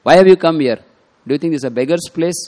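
high, loud retold scolding; a storyteller's shrill, loud wife chasing off a beggar. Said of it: "she spoke in a very shrill voice".

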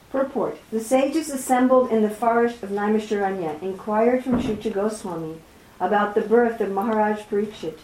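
formal read-aloud, phrase by phrase. A narrator's reading. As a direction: read a scripture commentary aloud, measured and clear. Reads the purport aloud.

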